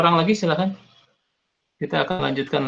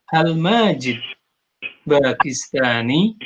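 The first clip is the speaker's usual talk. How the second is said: Hal Majid Bakistani asked slowly, Arab-style; teacher models the question tune; Arabic question intonation; slower than usual. Shown as a demonstration. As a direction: ask it the way an Arab would. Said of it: "seperti itu orang Arab, eh, ketika bertanya".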